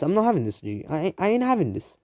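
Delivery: rising high-pitched rant; rude outburst. Acted. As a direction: squeak up high, fed-up roadman. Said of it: "Naruto's being, you know, rude now".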